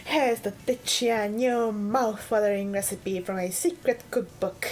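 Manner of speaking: lightly voiced TV cooking host; cooking show host. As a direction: greet viewers like a show host. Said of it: "I chose this voice accent".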